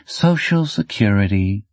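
bored and offhand. Acted. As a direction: say it like a dull formality. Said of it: "sounding bored".

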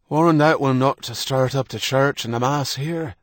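high, loud cracked warning; bitter old man. Acted. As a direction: spit out the threat, old and bitter. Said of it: "He spoke in a cracked voice".

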